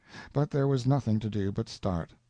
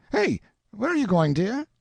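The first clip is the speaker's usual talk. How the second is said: calling out; 14 semitones higher, 6 dB louder than usual. A narrator's reading. Father calling to his daughter as she leaves, raised voice. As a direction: call out, higher and louder.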